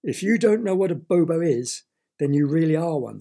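a lightly voiced, sharp bird retort; snapping bird. Bird snaps at Derek, lightly voiced sharp retort. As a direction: snap at the boy. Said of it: "snapped the bird".

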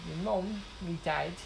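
lightly imitated British kid's accent; hint of a young Brit's accent. Quoting a kid on his family, light British accent. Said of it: "this British kid who was talking".

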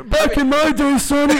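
a hint of a creaky grandpa lecturing; very old man. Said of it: "Okay, boomer".

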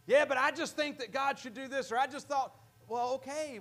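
lightly voiced stubborn believer; doubting believer. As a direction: imitate someone arguing with God.

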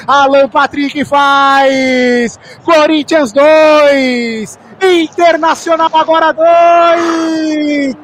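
slow, stretched shouted scoreline; drawn-out score call. Real, not acted. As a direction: drag out each word of the score.

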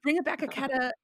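playful fake Italian, added vowels; bad Italian accent. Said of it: "doing a bad Italian accent".

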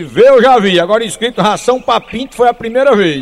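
a loud heckling yell from the crowd; loud mocking heckle; joker's shout. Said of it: "o gaiato gritou".

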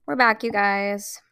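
laughing We're back. Real, not acted. Shaking off the serious moment, laughing. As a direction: chuckle it out.

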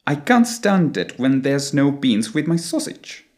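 British accent, open ah in can't and stand; British English. Shown as a demonstration. Teacher giving the complete British phrase, British English accent. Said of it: "the complete phrase would sound something like".

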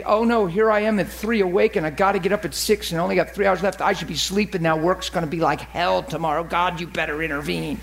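mild mock grumble, sinking in pitch; mumbled grumbling. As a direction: grumble it to yourself in bed. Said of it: "you mumble and grumble in your bed".

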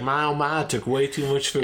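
imitated Southern accent. Co-host mimicking the other's sister, Southern accent. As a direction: put on her Southern twang. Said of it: "what's she doing that accent for".

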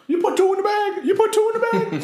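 high, loud hyped ad shout; commercial voice. Retold or imitated. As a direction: belt it like a fast food ad. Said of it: "The marketing to Burger King is getting to me".

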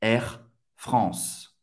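"Air France" with nasal ɑ̃ and throaty R; nasal AN vowel. Shown as a demonstration. Teacher modelling the airline's French name, nasal vowel. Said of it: "tem o som do on".

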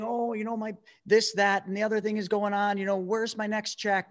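sneering impression of a handout seeker; mock complainer. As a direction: imitate someone with their hand out. Mocking people waiting for handouts.

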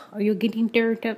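lightly put-on Spanish accent; a hint of mock Spanish accent; fake Spanish accent. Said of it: "That's my fake Spanish accent".

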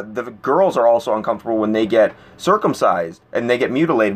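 ordinary talk, nothing marked

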